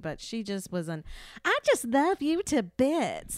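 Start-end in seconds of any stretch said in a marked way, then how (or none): 1.4-3.4 high, drawn-out Texan sweetness; slow, pitched-up fake-sweet Texan; mock Texan woman. Mocking the society lady's Texan accent, high and slow. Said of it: "That one bitchy lady".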